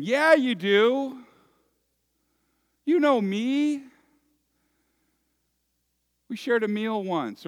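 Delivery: high, loud, slow protest of the shut-out guests; pleading outsiders. Acted. Shut-out guests pleading with the master, high and loud. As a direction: beg to be let in, insisting. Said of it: "These people are saying".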